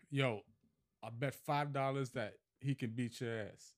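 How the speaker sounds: lightly imitated New York street accent; put-on New York accent. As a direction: quote the Queens kid with a hint of his New York accent. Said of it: "I love the accent".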